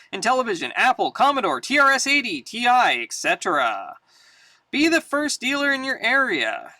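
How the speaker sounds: brisk mail-order ad announcer; upbeat classified ad pitch; ad read. Acted. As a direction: sell it like a vintage print ad. Reads comic book ads aloud.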